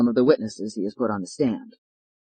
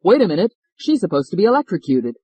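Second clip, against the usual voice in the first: raised, urgent call to stop; urgent shout; 4 semitones higher, 4 dB louder than usual. Acted. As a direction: call out to halt the execution. Policeman runs up, stopping hanging.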